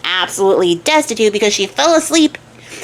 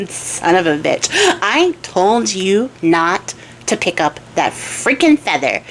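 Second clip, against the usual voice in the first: a tired horse scolding its crybaby master; weary horse; slower than usual. Acted. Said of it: "the horse is just like".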